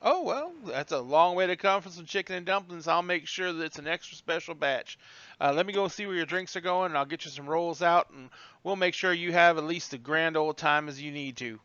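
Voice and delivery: lightly voiced Southern waitress; Southern waitress accent. Waitress taking drink orders, light Southern accent. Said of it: "You throw on that accent".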